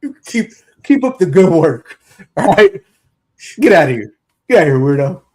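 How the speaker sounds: lightly voiced gruff coach; a hint of a gruff coach calling a player over; Hey Weirdo bit. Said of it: "yours was better than mine".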